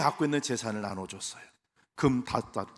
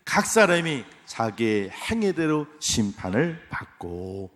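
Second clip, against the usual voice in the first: loud congregational reading; 4 dB louder, slower than usual. Shown as a demonstration. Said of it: "같이 읽습니다. 시작".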